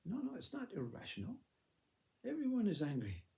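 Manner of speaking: high-pitched, soothing contradiction; insistent denial. Acted. Mother correcting children about father's anger, insistently dismissive.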